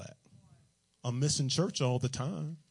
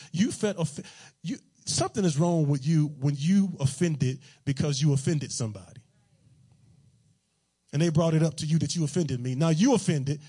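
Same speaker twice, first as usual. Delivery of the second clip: louder, punching "offended"; forceful rebuke; 4 dB louder than usual. Real, not acted. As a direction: preach it hard at the offended one. Preacher rebukes the offended spouse.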